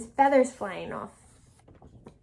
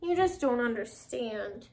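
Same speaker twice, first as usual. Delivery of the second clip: slow, softer, slumped pigeon; a little sad; 3 semitones lower, 5 dB quieter, slower than usual. Acted. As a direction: sigh it out slowly, mildly dejected. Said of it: "He might be a little bit sad".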